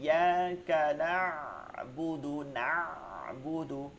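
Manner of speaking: নাবুদু with ayn deep in mid-throat; slow correction, pressing ayn inward in নাবুদু. Shown as a demonstration. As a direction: dwell on the throaty catch after না in নাবুদু. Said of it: "আইনটা কিন্তু যায় নাই ভিতরে".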